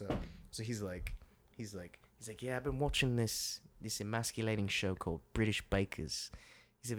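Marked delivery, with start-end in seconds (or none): 2.4-6.3 put-on British accent. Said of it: "doing British accents to him".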